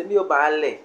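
"Miyo bale" with stress placed on "bale". Shown as a demonstration. Teacher showing an optional stress, stressed bale. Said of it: "for example, place stress".

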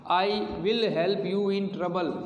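very slow, every word spaced; slow classroom dictation; slow example reading. Shown as a demonstration. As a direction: read the sentence slowly for the class. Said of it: "teacher reads example sentence".

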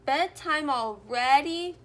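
crying out. A narrator's reading. Little bears tumbling inside to Mother Bear, crying out. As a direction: cry it out as surprised little bears. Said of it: "cried the bears as they tumbled inside".

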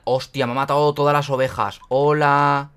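loud angry outburst; raging gamer. Real, not acted. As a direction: yell in frustration at the game. Sheep killed by mob.

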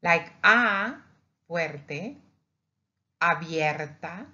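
loud open "A", then "fuerte, abierta" in Spanish; vowel demo. Shown as a demonstration. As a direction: open the mouth wide on a loud "A".

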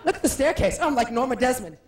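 lightly hammed screen diva; mock faded Hollywood star; Joan Crawford. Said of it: "this is Joan Crawford".

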